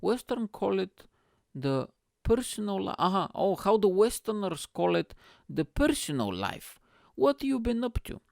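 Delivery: high-pitched put-on dad voice; dad impression. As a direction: imitate dad searching for the phrase. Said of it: "My dad goes".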